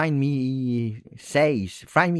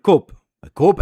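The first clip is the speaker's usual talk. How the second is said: shout; 6 semitones higher, 7 dB louder than usual. Real, not acted. Excited fan calls out player.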